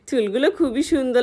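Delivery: giggle, then talk through the laugh; aunt laughing as she praises the hair. Acted.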